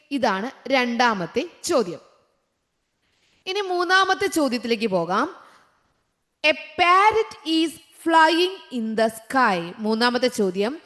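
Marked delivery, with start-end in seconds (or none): 6.5-9.7 each word drawn out very slowly; slow dictation. Shown as a demonstration. Teacher reading the quiz sentence to her class, very slow. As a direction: spell it out slowly for young pupils.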